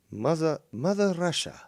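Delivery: a bad Russian accent for Mother Russia; mock Russian accent. Streamer mocking a rival's Russia lie, bad Russian accent. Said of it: "gotta work on that accent".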